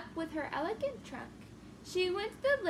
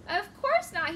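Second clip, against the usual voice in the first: cried out; 3 semitones higher, 5 dB louder than usual. Acted. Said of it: "he cried".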